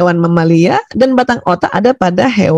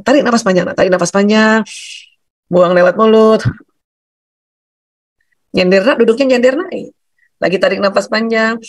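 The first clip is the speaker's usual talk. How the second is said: guided breathing. Shown as a demonstration. Teacher calming a panicking child before study, guided breathing. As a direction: lead them through a long breath.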